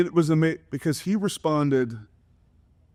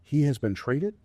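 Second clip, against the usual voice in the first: retold panic; 4 semitones higher than usual. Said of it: "And I said".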